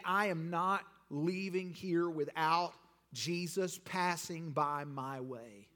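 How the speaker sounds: slow, measured, deliberate vow; resolute declaration. Acted. Preacher voicing a worshipper refusing to leave, resolute. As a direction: say it slowly, each word set apart. Voices a determined seeker.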